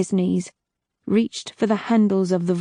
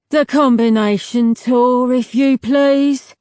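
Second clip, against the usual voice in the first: calm; 4 semitones higher, 6 dB louder than usual. A narrator's reading. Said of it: "he spoke calmly over the man's screams".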